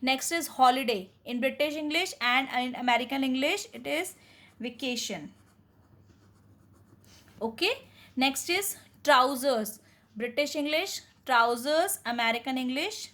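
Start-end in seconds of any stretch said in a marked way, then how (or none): 0.0-5.3 slow teacher read. Shown as a demonstration. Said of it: "teacher reads the word list". 8.2-9.8 slow announcing. Shown as a demonstration. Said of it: "teacher announces the next word".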